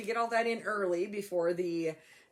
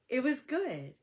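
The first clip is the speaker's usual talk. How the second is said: laughing; 4 semitones higher, slower than usual. Real, not acted. Laughing about the sales.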